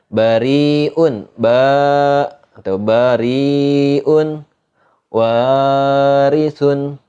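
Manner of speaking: bariun, warisun with light r, long vowels; thin ro. Shown as a demonstration. Teacher listing kasroh examples, thin ro in bariun, warisun. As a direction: slowly draw out bariun and warisun, r kept thin. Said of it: "itu baca tipis".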